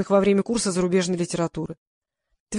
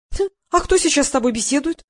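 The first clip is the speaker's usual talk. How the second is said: snorting; 7 semitones higher, 3 dB louder than usual. Acted. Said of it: "хмыкнула Лиза".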